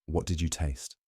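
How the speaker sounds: softly asked narrated question; quiet question. A narrator's reading. Fumiko to the tea seller after his sip, quietly. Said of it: "Fumiko asked quietly".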